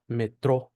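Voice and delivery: "metro" with the Brazilian O, stressed on the last syllable; Brazilian pronunciation of metro. Shown as a demonstration. Teacher giving learners an example word, Brazilian pronunciation. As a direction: say "metro" as me-TRO, Brazilian style. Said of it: "Por ejemplo, la palabra metro".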